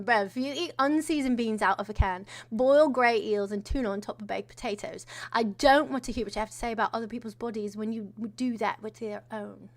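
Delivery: mock borderline-Cockney accent; lightly put-on British accent; muddled British accent. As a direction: read it in a rough imitation Cockney. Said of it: "I had to read it in the accent".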